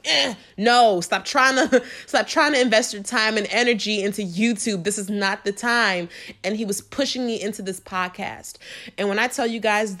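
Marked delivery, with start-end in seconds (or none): 0.0-6.1 God's voice. Retold or imitated. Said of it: "God was like".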